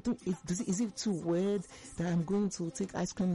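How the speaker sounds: halting, unsure inner voice; self-conscious hesitation. Retold or imitated. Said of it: "I feel like".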